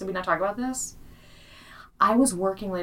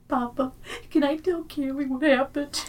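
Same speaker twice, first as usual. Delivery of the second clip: put-on high little kid asking sweetly; toddler voice; 8 semitones higher than usual. Little boy asking dad to tell the story, high child voice. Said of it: "he goes".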